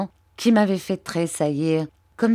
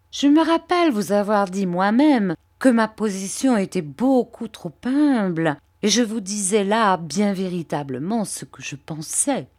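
oily, humble flattery, pitched a little up; Uriah Heep; 2 semitones higher than usual. Acted. Uriah fawning over Mr Copperfield, lightly voiced servile tone.

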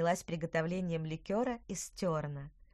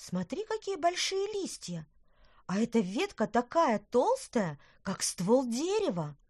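put-on high, amazed little girl; excited girl; 4 semitones higher, 4 dB louder than usual. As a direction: marvel at the huge leaves. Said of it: "сказала Лина".

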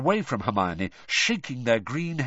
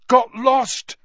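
panic-stricken; 12 semitones higher, 9 dB louder than usual. Acted. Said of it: "he mouthed, looking panic-stricken".

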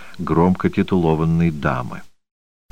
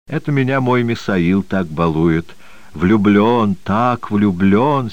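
beaming with happiness; 2 semitones higher than usual. Acted. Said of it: "сияла счастьем Железноградова".

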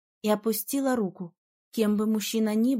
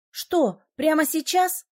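indignant, pitch jumping higher; angry; 6 semitones higher, 3 dB louder, slower than usual. Acted. Heroine indignantly snapping at the flirting mage. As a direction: snap back in disbelief. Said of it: "разозлилась я".

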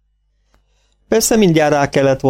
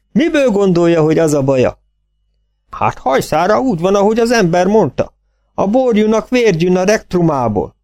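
farmer voice; 9 semitones higher than usual. A narrator's reading.

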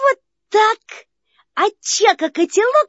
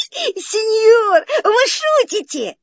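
nervous laughter; 3 semitones higher than usual. Acted. Frightened nervous puppet.

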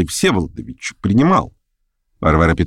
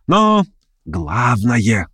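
ordinary delivery

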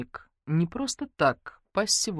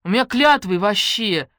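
offended; 5 semitones higher, 8 dB louder, slower than usual. Acted. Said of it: "обиделась Ленка".

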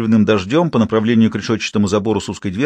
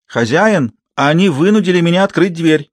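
louder, higher urgent call; crying out; 6 semitones higher, 3 dB louder than usual. A narrator's reading. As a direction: call out to the master in alarm. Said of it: "услышали они крик мадам Боннефон".

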